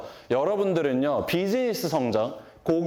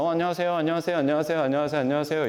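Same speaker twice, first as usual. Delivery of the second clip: cheerful repeated greetings; 3 semitones higher, much faster than usual. Retold or imitated. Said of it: "인사를 드렸어요".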